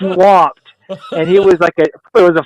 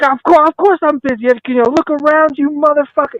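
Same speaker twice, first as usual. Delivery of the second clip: high-pitched mock exasperation; retold exasperated tirade; 9 semitones higher than usual. Swamped waiter to joking customer, retold exasperation. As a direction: fire back at a stupid question, acted.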